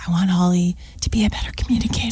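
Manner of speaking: breathy whisper into an ear. Retold or imitated. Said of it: "you'd whisper".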